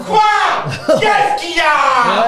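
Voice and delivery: slow, stretched shout from afar; far away shout. Shown as a demonstration. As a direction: call across a distance, drawn out. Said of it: "Là, c'est mieux".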